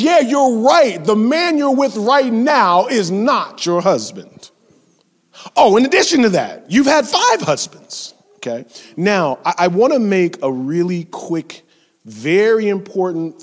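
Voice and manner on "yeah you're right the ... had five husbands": higher, louder, knowing call-out; a touch of sassy Jesus; pointed Jesus. Pretend. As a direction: let him land the clapback. Jesus voiced confronting, pointed.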